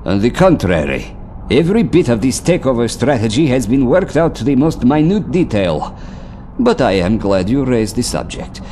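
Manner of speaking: cold, threatening sneer; silky threat to a subordinate; menacing. Acted. Villain threatens the officer.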